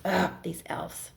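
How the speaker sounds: whispered, weary sigh of a groan; exasperated whisper. Acted. Santa shaking his head at his naughty elves, whispered groan. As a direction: breathe it out, fed up with the elves.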